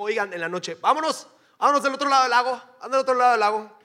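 calling loudly across to the group; a loud, eager call to get going; mock call out. Jesus calling the disciples to cross the lake, loud call.

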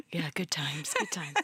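lightly voiced, understated radio-show shtick; a hint of a mock SNL host; SNL shtick imitation. Host likens their banter to an SNL shtick, lightly imitating it. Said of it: "shtick on S N L where it was like".

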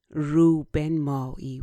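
"رو بنمایی" given light emphasis; stress on the phrase. Shown as a demonstration. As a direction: set "رو بنمایی" slightly apart and firm. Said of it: "put an emphasis on the word".

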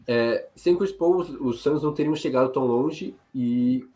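cracking, failing voice; voice giving out. Real, not acted. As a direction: push words through a failing voice. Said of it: "tá falhando já".

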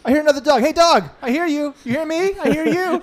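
high eager puppy voice; excited puppy voice. Acted. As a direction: talk like a thrilled little dog.

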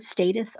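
"status" with a long a, as in "stay"; long-a pronunciation. Shown as a demonstration. Teacher weighing up pronunciations, long-a "status". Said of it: "or I've heard status also".

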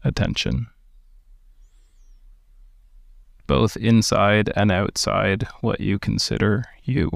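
calm, unhurried meditation guidance; guided meditation. Acted. Teacher guiding listeners through meditation, in a calm guiding voice. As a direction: ease listeners into stillness with gentle pacing.

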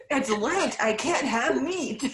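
put-on Southern accent. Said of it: "making him Southern again".

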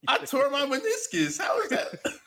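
very high-pitched indignant complaint; indignant protest. Real, not acted. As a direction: protest your injury to a laughing friend. Protests at being laughed at.

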